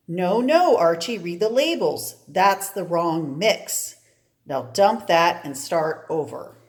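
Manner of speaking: a hint of a stern teacher scolding; scolding professor. Professor correcting Archie's wrong mix, lightly stern.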